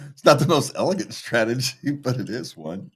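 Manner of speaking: talking around ice in mouth. Real, not acted. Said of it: "I got ice in my mouth".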